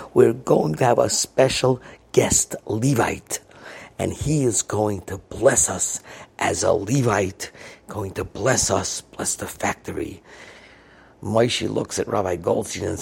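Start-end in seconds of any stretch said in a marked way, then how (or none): 0.1-10.2 slow, deliberate introduction of a special guest; measured, drawn-out public address; announcer on the microphone. Retold or imitated. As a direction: play a boss making a big announcement. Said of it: "He gets on the microphone".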